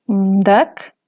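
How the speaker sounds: mdak with the pitch rising. Shown as a demonstration. Teacher giving another rising-tone word, rising. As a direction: let mdak climb upward. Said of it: "Otras palabras con tono ascendente".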